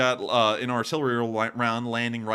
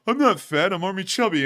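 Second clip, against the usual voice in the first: higher and louder, proudly declaring it; mock proud boast; 6 semitones higher, 6 dB louder than usual. Streamer imagining telling college classmates, mock proud boast. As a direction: play it as a cheeky self-defence line. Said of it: "I'm gonna go".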